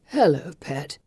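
sleepy and low, words drifting; nodding off on morphine; drowsy voice. Acted. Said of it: "he calls in a drowsy voice".

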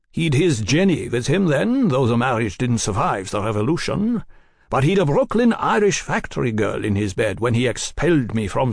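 a lightly voiced bitter old radical; bitter exile. Krieger, an exile, airs his grievance.

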